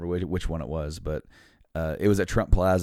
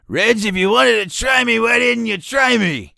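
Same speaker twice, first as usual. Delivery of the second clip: Stu yelling; 6 dB louder than usual. Retold or imitated. Stu finally yells down the phone at Reg. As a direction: blow up at him, drawing each word out. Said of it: "Stu yells".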